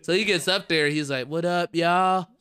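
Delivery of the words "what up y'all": higher, louder hype greeting, hammed up; a comic greeting a dead room, overdone; imitating a comic yelling what up to the crowd; mock stage greeting.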